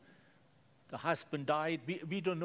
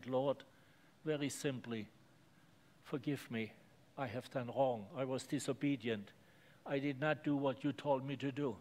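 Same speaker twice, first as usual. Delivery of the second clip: humble prayer; 2 semitones lower than usual. Shown as a demonstration. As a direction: confess simply and sincerely. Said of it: "come to the Lord and say".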